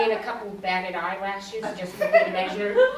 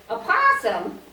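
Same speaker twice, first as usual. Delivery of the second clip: high-pitched mock amazement; astonished echo; 10 semitones higher, 3 dB louder, slower than usual. Husband hearing about the trapped possum, amazed. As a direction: imitate a husband taken aback, voice leaping up.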